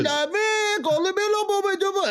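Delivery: high, hammed-up franglais; mock French. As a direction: play the show-off pretending to be fluent. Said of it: "Suddenly I'm like".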